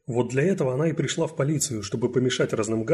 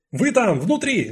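loud, high yell; 10 semitones higher, 6 dB louder, slower than usual. Acted. Detective yells at the killer inside. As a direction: bellow into the locked room. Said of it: "заорала Францискович".

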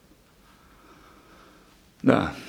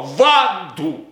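rising from loud to a much higher, louder cry; crying out a name; 5 semitones higher, 4 dB louder, much slower than usual. Acted. Leonard confessing to doctor Willing, crying out Wanda's name. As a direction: call her name twice, each more desperately.

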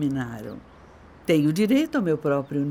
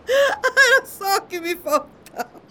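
scornful disbelief; 14 semitones higher, slower than usual. Acted. Wife scoffs at husband.

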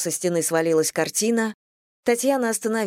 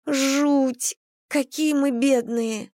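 pathetic lament; 7 semitones higher, much slower than usual. Acted. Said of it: "прозвучало так патетично".

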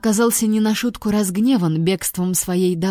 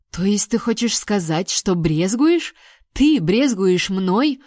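indignant; slower than usual. Acted. Indignant at the monster.

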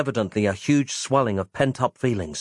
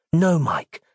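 plain reading voice

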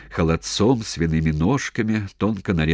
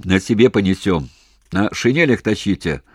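a touch of hysteria, raised yell; near-hysterical yelling; 3 semitones higher, 4 dB louder than usual. Acted. Commander yelling back about carrying wounded. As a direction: bark the orders half-panicked. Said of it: "Почти в истерике орал".

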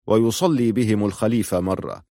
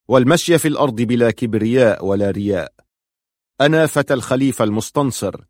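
louder preaching voice, steady and firm; pulpit sermon; 3 dB louder than usual. Acted. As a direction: preach to the crowd from the minbar. (خطبة منبرية بصوت أعلى وثابت)

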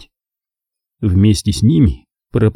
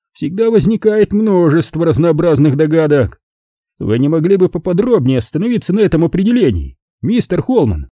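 higher-pitched, lightly languid count; lazy; 7 semitones higher than usual. A narrator's reading. Count questions Holman about the relationship, mildly lazy. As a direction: probe idly, with a touch of laziness. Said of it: "лениво заметил он".

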